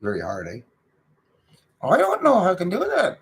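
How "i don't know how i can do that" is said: very high put-on dummy voice; mock ventriloquism. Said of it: "Can you guys do ventriloquism?".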